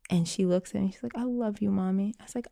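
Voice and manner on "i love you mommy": put-on soft, slightly raised child's voice; imitating tender child. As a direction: gently voice a child's affection. Child tells mother she loves her.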